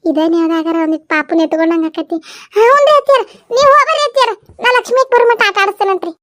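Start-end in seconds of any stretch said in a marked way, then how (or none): 2.6-6.1 put-on high, cooing young woman's voice; high doting voice for the baby; sweet young woman. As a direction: coo over the baby like a doting young aunt.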